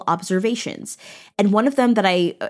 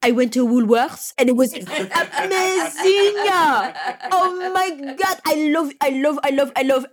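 gushing tourist; 6 semitones higher than usual. Retold or imitated. Madame Rocher raving to the British about Woolworths, gushing. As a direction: rave like a delighted visitor. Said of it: "She's like".

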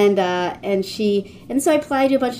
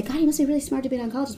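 imitating people; 5 semitones higher, much faster than usual. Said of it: "people say".

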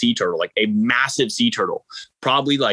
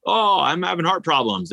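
higher-pitched, lightly put-on wimpy complaint; mock weenie; 7 semitones higher than usual. Swimmer reluctant to report cramps, mock wimpy. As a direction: imitate yourself being a bit of a weenie. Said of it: "be a weenie and be like".

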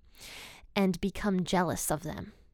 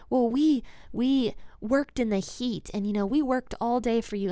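mock upset workers; 3 semitones higher than usual. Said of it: "they're all upset".

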